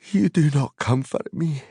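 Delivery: high, lightly voiced hobbit retort; a small, wry complaint; Pippin's voice. Pippin answering Gandalf wryly, high hobbit voice.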